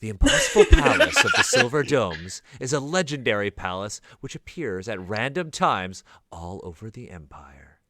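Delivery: lightly voiced trailer announcer, slowed down; a hint of a dramatic trailer voice; movie trailer announcer. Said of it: "movie trailer announcer voice now?".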